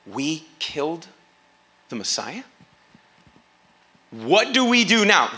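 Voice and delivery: stunned panic. Retold or imitated. Crowd panicking after Peter's words.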